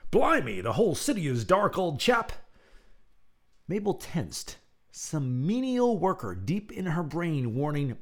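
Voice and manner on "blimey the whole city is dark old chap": high, louder British exclaim; British accent. Acted. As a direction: chirp it like an old English chap. British character voice.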